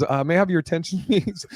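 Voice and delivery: brisk, high announcer imitation; mock public announcement. Airline lady on the mic to everyone, mock public announcement. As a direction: imitate an agent addressing the whole gate. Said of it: "she gets on the mic".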